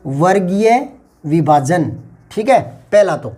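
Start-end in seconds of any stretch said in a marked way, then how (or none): 0.0-1.9 slow repeat. Shown as a demonstration. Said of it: "इसको बोलते हैं वर्गीय विभाजन".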